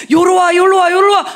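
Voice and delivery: loud, high coaxing call, come here come here; mock luring shout. God loudly coaxing Moses to come over, mock shouted call. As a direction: beckon loudly like luring an animal.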